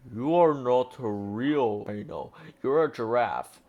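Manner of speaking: lightly voiced angry rhino, understated bellow; a hint of a grumpy rhino; mild rhino bellow. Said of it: "bellowed an angry-looking rhino".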